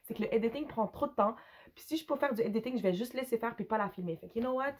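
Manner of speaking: rough, hoarse speaking voice; talking through a hoarse throat. Real, not acted. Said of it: "j'ai la voix rauque".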